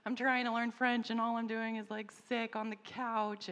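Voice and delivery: high, loud plea to the Lord that slows at the end; mock despairing prayer. Pregnant mom walking to school, pleading to the Lord in despair. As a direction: cry out to God, overwhelmed. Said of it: "and I'm just like".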